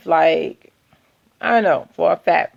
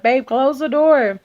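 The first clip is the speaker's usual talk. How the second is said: urgent hush; 7 semitones higher, slower than usual. Retold or imitated. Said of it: "I'm like".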